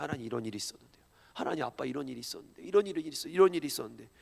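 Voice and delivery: put-on a quiet, childlike whispered prayer; hushed intimate prayer. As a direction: confide every detail quietly. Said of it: "미주알 고주알 다 얘기합니다".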